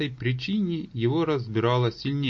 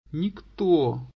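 moaning; 4 semitones higher than usual. Acted. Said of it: "простонал мертвец".

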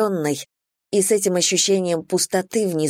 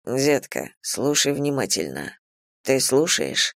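lower, controlled male voice; lightly voiced commanding man; 4 semitones lower than usual. Man instructing his lover, lightly voiced command.

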